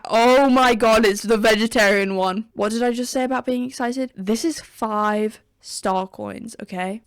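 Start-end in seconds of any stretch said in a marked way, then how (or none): 0.0-2.5 shocked. Real, not acted. Shocked at the menu item.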